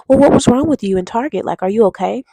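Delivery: put-on concerned girlfriend confronting him. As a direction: press him with worried concern. Girlfriend questioning boyfriend in car.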